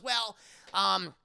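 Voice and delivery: sweet bubbly introduction; perky girl voice. Acted. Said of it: "She goes".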